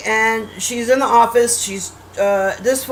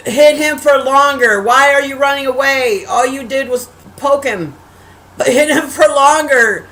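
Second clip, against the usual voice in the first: exasperated mock yell, slightly raised; retold screaming at TV; 2 semitones higher, 3 dB louder than usual. Viewer questioning why the heroine runs away, exasperated mock yelling. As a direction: plead loudly with the screen. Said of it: "I was screaming at the T V nonstop".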